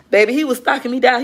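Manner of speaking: high, excited telling. Real, not acted. Telling viewers God hunted her down, excited.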